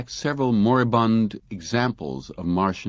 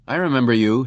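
louder, biting anger; savage; 5 semitones higher, 6 dB louder, faster than usual. A narrator's reading. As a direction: spit it at her. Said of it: "he said savagely".

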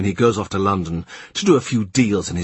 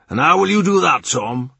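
high, louder doubting question; Kat questioning; 8 semitones higher, 5 dB louder than usual. A narrator's reading. Kat doubting Tom's plan to pay back, high and loud. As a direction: challenge him, pitched well up.

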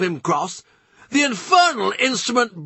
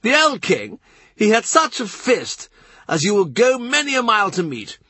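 much higher, hectoring and insistent; Norfolk demanding; 9 semitones higher than usual. A narrator's reading. Norfolk lecturing the courtiers on succession, demanding and high. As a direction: hammer each question at them. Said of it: "Norfolk demands".

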